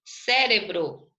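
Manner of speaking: "Cérebro" slowly, with a strong CÉ; stress on first syllable. Shown as a demonstration. Teacher sounding out the accented syllable, "Cérebro" slow with stressed CÉ. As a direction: lean on the CÉ of "Cérebro". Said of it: "antepenúltima".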